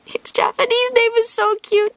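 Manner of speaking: breathy gushing whisper over a cute card. Real, not acted. Whispering to the camera about a cute card, adoring.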